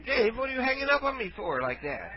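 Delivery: a hint of a feeble old caller; frail shaky old whisper. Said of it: "Well, I'm old".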